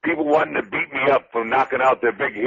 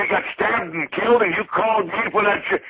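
incredulous; 6 semitones higher than usual. Retold or imitated. Incredulous retort retold.

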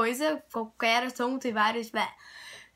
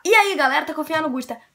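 youtuber greeting; 5 dB louder, faster than usual. Retold or imitated. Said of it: "Você fala".

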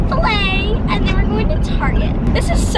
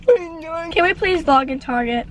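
slow, pleading through laughter; laughing; slower than usual. Real, not acted. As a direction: beg while still laughing. Still laughing.

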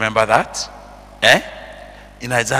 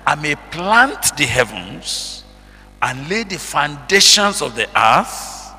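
preacher's reading, stretched key words and louder phrases; emphatic scripture reading; 5 dB louder than usual. Acted. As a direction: read it out slowly and firmly to a congregation.

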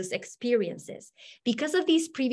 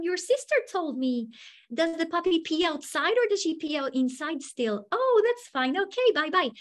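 bright, higher-pitched greetings to students; friendly teacher chat; 6 semitones higher than usual. Shown as a demonstration. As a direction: chat cheerily with each child by name. Acting out friendly chats with students.

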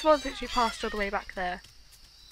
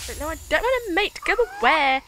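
loud refusal; 6 semitones higher, 11 dB louder than usual. Real, not acted. Rejecting other creature.

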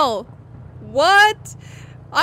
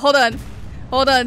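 loud; 6 dB louder than usual. Real, not acted. Calling out to teammate.

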